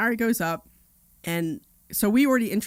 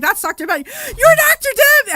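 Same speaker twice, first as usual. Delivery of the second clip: laughing recognition; 13 dB louder, slower than usual. Retold or imitated. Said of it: "he's like".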